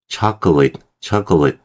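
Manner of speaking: chocolate with the middle vowel swallowed; chocolate as CHOC-lit; reduced chocolate. Shown as a demonstration. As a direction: say chocolate fast, middle syllable gone. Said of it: "거의 그냥 붙어버려요".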